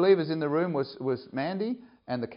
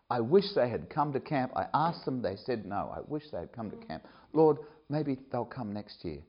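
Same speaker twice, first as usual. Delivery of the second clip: mild sorrowful prayer; 5 dB quieter than usual. Retold or imitated.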